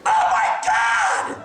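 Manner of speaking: high, drawn-out mock shriek; woman's shriek. Woman spotting a celebrity in a coffee shop, shrieking. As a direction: shriek it like a starstruck fan. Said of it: "It's a woman shrieking at the guy".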